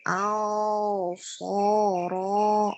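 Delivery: au soro with the nose pinched twice; pinching nose. Shown as a demonstration. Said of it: "buka tutup silakan".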